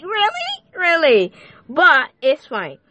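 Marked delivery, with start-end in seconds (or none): 0.0-0.8 "really?" in a very high rising squeak of disbelief; incredulous. Retold or imitated. Disbelief at a person's actions. 0.8-1.3 "Really?" higher, falling flat in disbelief; unimpressed. Retold or imitated. Disbelief at a person's actions.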